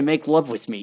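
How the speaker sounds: usual speaking voice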